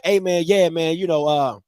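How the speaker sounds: low, lazy mock dude voice; lightly voiced clueless dude; mumbling dude. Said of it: "he be like".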